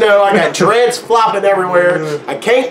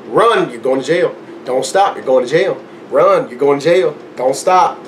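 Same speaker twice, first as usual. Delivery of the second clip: low-pitched chant to oneself; urgent self-talk; 3 semitones lower than usual. Retold or imitated. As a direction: repeat it like a runner's grim mantra. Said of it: "That's all I kept saying to myself".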